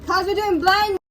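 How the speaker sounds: muffled by tape on the lips; mouth taped shut. Real, not acted. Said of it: "Why do you have tape on your mouth?".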